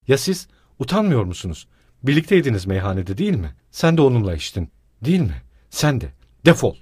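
loud angry scolding ending in a shout; öfkeyle kovma; furious accusation. Acted. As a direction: drive him out in rage. Wife turns on the stranger.

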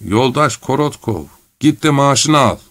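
lightly acted, meaningful tone; insinuating. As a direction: drop a sly hint. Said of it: "imalı bir sesle".

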